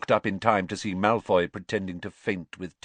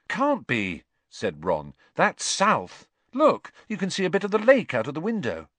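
put-on teen boy voice; 8 semitones higher, 4 dB louder than usual. A narrator's reading. Ron voiced.

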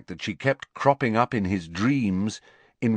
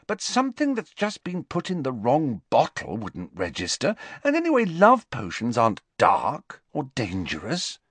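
sighing; 7 semitones higher than usual. A narrator's reading. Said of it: "sighed Hermione".

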